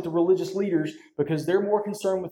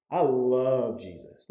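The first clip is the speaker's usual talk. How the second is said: choked up; 5 semitones lower, slower than usual. Real, not acted. Pastor repeating his love for Jesus, choked up and slow. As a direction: let it break a little as you repeat it. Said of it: "when y'all see me get emotional up here".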